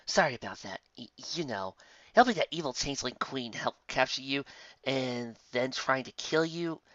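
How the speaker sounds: quiet, awkward apology. Acted. Lyra awkwardly apologizing to Twilight after the wedding. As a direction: mumble sorry, embarrassed.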